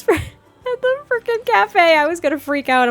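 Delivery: almost freak out at the sight; alarmed. Real, not acted. Alarmed a stranger works there.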